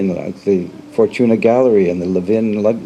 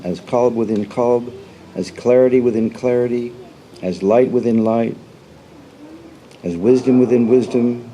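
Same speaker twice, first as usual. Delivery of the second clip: measured recitation with parallel phrases set apart; devotional reading. Acted. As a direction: read it out as a prayer, phrase by phrase. Reads a prayer text aloud.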